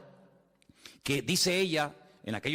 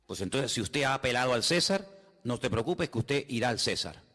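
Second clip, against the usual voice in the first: lightly voiced judge, pitched down; lower judge; 4 semitones lower than usual. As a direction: give a low, understated official ruling. Acts the lower judge answering Paul.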